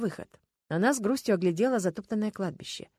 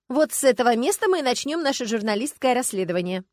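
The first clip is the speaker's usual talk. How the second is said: с воодушевлением; 5 semitones higher, 6 dB louder than usual. Acted. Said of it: "с воодушевлением сказала Людмила".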